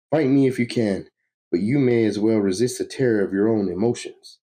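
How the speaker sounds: high, indignant villain voice; crazed villain. Acted. Villain promises the fools terror, crazed and gloating. Plays crazed Psycho Pirate threatening foes.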